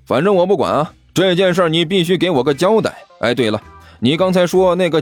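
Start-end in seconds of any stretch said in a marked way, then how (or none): 0.0-2.9 mildly petulant demand; a touch stubborn and huffy; pouting. Acted. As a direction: insist through a slight pout. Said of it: "齐健撇着嘴说道".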